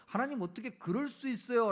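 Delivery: demanding protest. Acted. Believer challenging God over using the wicked, demanding protest. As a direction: confront God with an indignant question. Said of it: "따져 물을 수 있는 거예요".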